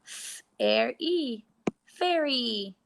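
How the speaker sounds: "F-, air, E" said separately, then "fairy" blended; sounding out. Shown as a demonstration. Teacher sounding out a word for the class, segmenting. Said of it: "let's sound it out like an E".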